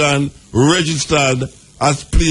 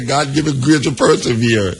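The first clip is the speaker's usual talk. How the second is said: quoting mother; 2 semitones lower than usual. Retold or imitated. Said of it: "when my mother say".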